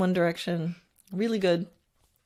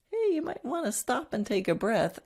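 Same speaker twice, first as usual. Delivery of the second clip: higher, light little voice in the head; little inner voice; 6 semitones higher than usual. Acted. Little voice in your head advising the rider, lightly higher. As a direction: pipe up as a small nagging conscience. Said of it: "a little voice in your head".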